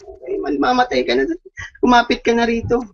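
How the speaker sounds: high, urgent mock yell from the helicopter; mock shouting. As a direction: shout him aboard, pitched well up. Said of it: "sumisigaw na".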